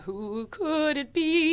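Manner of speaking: high, drawn-out mock suspense; excited wondering. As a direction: stretch it out in playful, high anticipation. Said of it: "I get so excited".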